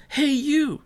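high call across the street. A narrator's reading. Girl calling out of the car window to the new kid, high. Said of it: "Maddie called out".

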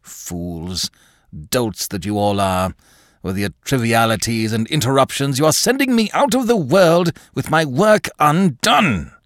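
rising to a high, loud rant; irritable tirade. A narrator's reading. Craven scolding the servants, rising to a loud rant. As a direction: scold them, building to a cry. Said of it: "said Mister Craven irritably".

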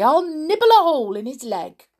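high, loud, plucky squeak; brave little mouse. A narrator's reading. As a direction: pipe up boldly as a tiny mouse. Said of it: "said the Clockwork Mouse bravely".

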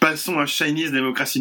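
breezy throwaway announcement; offhand, casual. Retold or imitated. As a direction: toss it off like it's nothing. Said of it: "tu dis ça sur un ton de désinvolte".

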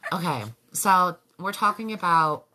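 bright, polite customer service voice. Real, not acted. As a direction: sound sweet like at a help desk. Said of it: "I'm using my freaking customer service voice".

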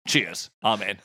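matey Cockney mock prayer; Cockney accent. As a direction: recite a prayer as a chummy Cockney. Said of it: "in Cockney".

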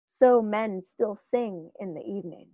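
measured, reverent reading of verse; poem recitation. Acted. Podcaster reciting Tolkien's verse to the cohost, measured poem reading. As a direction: read it as old verse, letting the last line fall away.

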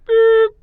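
lighter vocal censor beep; mouth bleep. Shown as a demonstration. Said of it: "That should do it".

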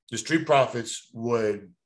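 slow, chewing between words; chewing gum. Real, not acted. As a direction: talk around a piece of gum. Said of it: "sorry, I'm chewing gum".

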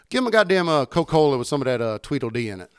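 mock drawling country customer; country guy. Bartender imitating a country customer ordering loudly. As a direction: play the country regular, loud. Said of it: "this dude's fucking country as fuck".

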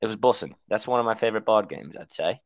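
put-on British voice; British accent. Rounding off the board game answer, mock British. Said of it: "we have to talk in a British accent".

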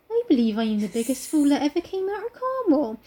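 heroine with a put-on Cornish accent; Cornish-accented confession; Mary. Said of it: "she said slowly".

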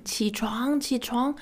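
understated pretend shout; mock shouting. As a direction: imitate a persistent wake-up call lightly. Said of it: "someone keeps on shouting you".

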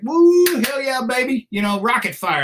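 high, loud hammed-up whoop of glee; whooping officer. Officer cheering rockets from the little birds, whooping high and loud. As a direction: play the officer thrilled by the rocket fire. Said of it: "he's like".

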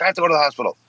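mocking whiny wife. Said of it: "She's like".

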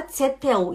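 tsetel mispronounced "tse-teu"; wrong final L. Shown as a demonstration. Teacher warning students off the bad form, L as U. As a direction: end tsetel on a U sound instead of L. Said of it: "Não fala tsetel".

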